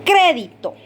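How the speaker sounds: "Crédito" with the first syllable "Cré" punched; golpe de voz. Shown as a demonstration. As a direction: hit "Cré" firmly, let "dito" fall away. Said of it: "¿dónde se escucha el golpe de voz?". ("Crédito" con golpe de voz en "Cré")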